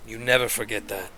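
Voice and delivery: low, soft, deliberate leader's warning; Chunta. Acted. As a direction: lay down the law quietly, with pauses. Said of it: "And he goes".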